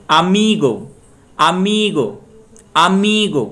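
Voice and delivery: अमीगो with मी high and long, गो falling; stress on middle syllable. Shown as a demonstration. Teacher drills the stress rule, stressing मी in अमीगो. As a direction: stretch and lift the मी of अमीगो. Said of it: "अमीगो में मी पे stress होगा".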